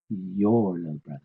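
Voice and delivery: "your" held long, "little brother" lighter after it; stress on YOUR. Shown as a demonstration. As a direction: put the weight on "your". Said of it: "not mine".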